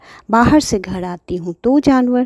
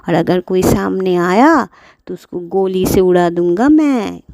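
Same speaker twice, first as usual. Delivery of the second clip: thief scheming. Acted. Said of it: "चोर ने सोचा".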